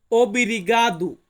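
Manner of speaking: careful, slow ওব্রিগাদু; slow Portuguese word. Shown as a demonstration. Teacher slowly models ওব্রিগাদু, careful Portuguese. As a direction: say ওব্রিগাদু slowly as obrigado, oh-bree-GAH-doo. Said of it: "Portuguese ভাষাতে বলা হয়".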